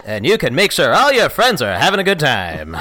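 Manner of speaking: 1940s newsreel announcer. Acted. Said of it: "Nineteen forties documentary news announcer".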